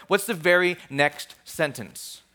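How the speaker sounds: slow down and weight each word; slow emphatic repeat. Real, not acted. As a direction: draw the question out slowly. Same question repeated for emphasis.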